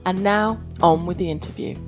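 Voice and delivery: hoarse from a sore throat; rough, scratchy throat voice; gravelly voice. Real, not acted. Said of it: "I had a bad throat and I sound really gravelly".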